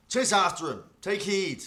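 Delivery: high, forceful commander's shout; shouted order. Acted. Commander sending soldiers after the flier, shouted order. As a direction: bark orders at your men. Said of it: "the one in charge now orders".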